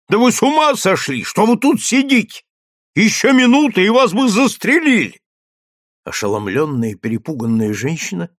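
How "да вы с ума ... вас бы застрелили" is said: high, loud, agitated scolding; beside herself. Acted. Canteen woman scolds the hidden mother, beside herself. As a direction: scold her in alarm, voice pitched high. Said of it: "продолжала вне себя".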